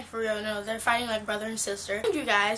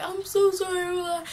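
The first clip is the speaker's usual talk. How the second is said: higher-pitched mock apologizing; mock apology; 7 semitones higher than usual. Uncle apologizing to hurt niece, mock-apologetic. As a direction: lightly imitate someone saying sorry in a higher voice.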